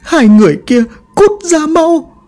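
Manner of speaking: high, keening wail, slowing on the order to let go; half-mad widow crying out to her husband; wailing lament. Acted. Bà Hoan wailing over her husband's coffin, crazed with grief. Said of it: "miệng gào khóc".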